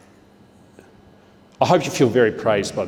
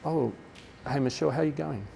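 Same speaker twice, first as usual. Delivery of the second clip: softer, casual aside to one student; quiet check-in; 4 semitones higher, 7 dB quieter than usual. Shown as a demonstration. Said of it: "So I'm gonna say".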